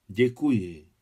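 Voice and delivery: moved, touched. Acted. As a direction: give thanks with emotion. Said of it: "říkal dojatě Adam".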